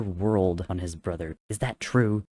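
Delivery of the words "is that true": playfully wounded, louder; mock hurt demand. A narrator's reading. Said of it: "he demanded with faux hurt".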